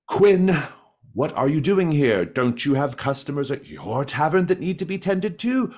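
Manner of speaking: exasperated protest. Acted. Innkeeper telling off the rival taverner, loud exasperation. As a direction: scold the intruder loudly.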